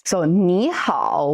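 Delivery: slow ni hao, each tone shaped; teacher sounding out ni hao slowly. Shown as a demonstration. Teacher models ni hao for learners, slow and clear. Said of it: "Ni with a falling rising tone".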